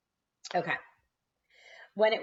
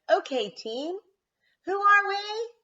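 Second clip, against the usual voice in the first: coach calling out; 6 dB louder than usual. A narrator's reading.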